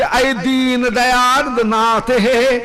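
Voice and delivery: slow, pleading Sanskrit verse; anguished calling. Acted. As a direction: call out in longing. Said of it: "व्याकुल होकर के पुकार रही हैं".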